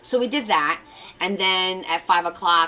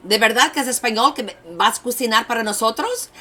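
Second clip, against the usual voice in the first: rapid Spanish; 5 semitones higher, 5 dB louder, faster than usual. Retold or imitated. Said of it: "And I go like this".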